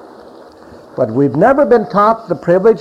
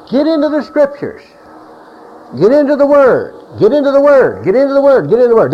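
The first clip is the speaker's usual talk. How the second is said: high, loud, insistent mock preacher chant; mocking the leadership; 10 semitones higher, 4 dB louder than usual. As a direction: hammer it like a pushy church leader. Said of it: "you hear all the time from leadership".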